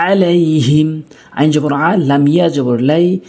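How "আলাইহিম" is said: "আলাইহিম" opening on a squeezed ain; mid-throat ain. Shown as a demonstration. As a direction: begin "আলাইহিম" from the middle of the throat. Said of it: "হলকের মাঝখান থেকে".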